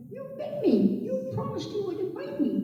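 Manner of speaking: betrayed and shocked; boy bitten by the snake, high and shocked. Acted. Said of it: "And the boy said".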